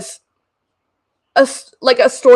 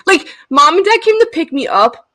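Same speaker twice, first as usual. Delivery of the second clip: laughing; 9 semitones higher than usual. Real, not acted. Laughing about being barely alive.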